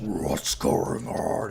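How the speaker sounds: deep, big, huge dragon voice. Retelling a creature's reaction to the group appearing, in a big dragon voice. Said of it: "in his big dragon voice".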